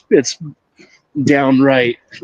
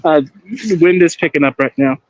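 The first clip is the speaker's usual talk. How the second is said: wind on mic; 3 semitones higher than usual. Real, not acted. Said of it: "You sound like you're in a wind tunnel".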